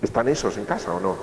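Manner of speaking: ordinary delivery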